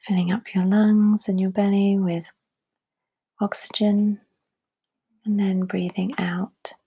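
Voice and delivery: calm, spacious breathing instruction; guided meditation. Real, not acted.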